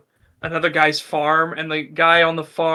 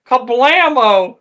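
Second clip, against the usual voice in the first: drawn-out gunshot word; 7 semitones higher, 7 dB louder, slower than usual. Retold or imitated. Redneck fires the shotgun.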